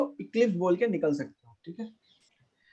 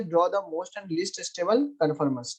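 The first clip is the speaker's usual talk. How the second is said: slow dictation; 2 semitones lower, much slower than usual. Real, not acted. Teacher dictating question to class.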